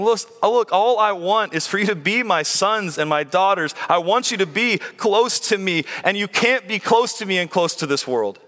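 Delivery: earnest appeal with a touch of pleading; understated plea, leaning on the key words. Acted. Preacher voicing God to his sons and daughters, mildly pleading. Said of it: "God's pleading and saying".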